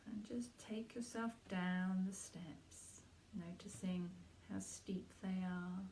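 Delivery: unhurried meditation guide with gentle pauses; guided meditation. Acted. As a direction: lead listeners inward, letting each phrase settle.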